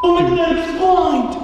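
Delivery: high, loud gasp of realization; shocked exclamation. Real, not acted. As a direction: cry out in real astonishment. Stunned realization during ghost hunt.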